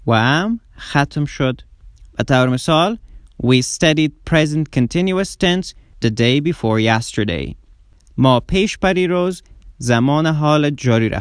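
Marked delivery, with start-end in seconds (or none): 3.4-7.5 very slow, careful English sentence; slow model reading. Shown as a demonstration. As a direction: read it slowly for students to copy. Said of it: "slow model sentence". (خواندن آهسته و شمرده)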